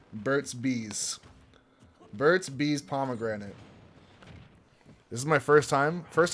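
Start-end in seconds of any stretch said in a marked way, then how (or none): 0.1-1.2 whispered brand name. Real, not acted. Reading the lip balm label.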